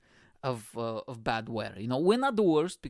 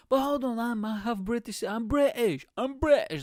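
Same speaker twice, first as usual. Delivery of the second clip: high, hammed-up mock protest; pleading traveller; 8 semitones higher than usual. Traveller insisting to border officer, mock pleading. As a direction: plead your case in a raised put-on voice.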